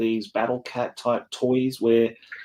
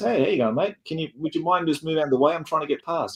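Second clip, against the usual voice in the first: higher-pitched voice; 5 semitones higher than usual. Retelling a film scene on a rooftop: imitating Crocodile Dundee. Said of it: "Dundee just walks around the corner and goes".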